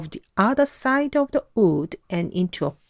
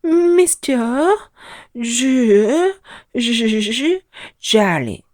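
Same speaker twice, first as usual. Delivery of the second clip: nervous stammer; 3 semitones higher, much slower than usual. A narrator's reading. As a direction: stammer out your name in fear. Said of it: "stammered Mister Jolly".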